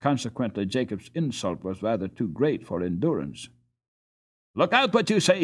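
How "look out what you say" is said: higher, pinched squeak; the little one squeaks back in protest; squeaky retort. A narrator's reading. Small boy answering Jacob's insult, a high squeak. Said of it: "he squeaked".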